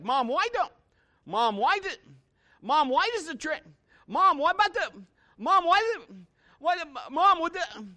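put-on high, rushed child's questions; a small boy pestering his mom; excited little kid. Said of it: "he was like".

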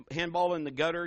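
usual speaking voice

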